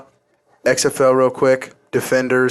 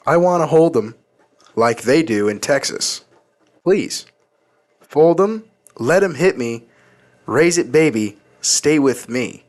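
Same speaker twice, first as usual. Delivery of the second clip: lyrics read in monotone voice. Shown as a demonstration. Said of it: "in the most monotone voice".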